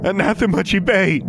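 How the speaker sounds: high ringing incantation shout; shouted spell. A narrator's reading. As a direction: hurl the banishing spell. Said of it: "she said again".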